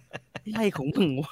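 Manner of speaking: slow, soft mocking grumble; lightly voiced cranky resident, slow and soft; grumbling condo resident. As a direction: drag it out like a petty neighbour. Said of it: "พวกแบบ".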